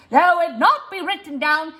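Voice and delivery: said fast. Shown as a demonstration. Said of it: "maybe say it fast".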